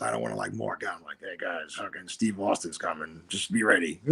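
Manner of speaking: low murmur through still lips; ventriloquist whisper. Retold or imitated. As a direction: mutter without moving your lips. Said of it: "trying to be like a ventriloquist".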